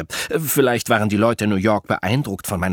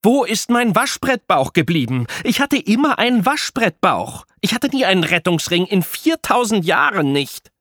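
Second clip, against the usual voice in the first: high, louder wailing complaint; melodramatic lament; 11 semitones higher, 4 dB louder than usual. A narrator's reading. Apollo lamenting on the sidewalk, hammed-up. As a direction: mourn lost abs like a tragedy. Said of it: "rumbrüllst".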